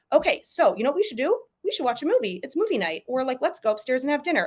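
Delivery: cheerful redirect. Pretend. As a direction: chirp the new plan to distract the child. Parent cheerfully redirects upset toddler.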